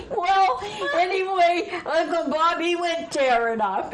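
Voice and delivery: talking through helpless laughter; high, loud, laughter-choked words; fighting to speak through laughter; laughing. Real, not acted. Still laughing after story peak.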